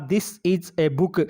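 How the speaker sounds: "This is a book" spoken very slowly and clearly; slow model sentence. Shown as a demonstration. Teacher showing the class a book, slowly modelling the sentence. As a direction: model it word by word for the pupils. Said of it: "वाक्य बोला जाएगा".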